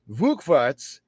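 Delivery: Rückwärts drawn out slowly, German R and "verts"; German word Rückwärts. Shown as a demonstration.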